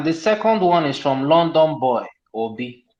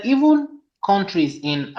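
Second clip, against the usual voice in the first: slow, deliberate quoting; quote read out; 3 semitones higher, slower than usual. Real, not acted. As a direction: read it out word by word. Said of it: "I emphasize on the word openly".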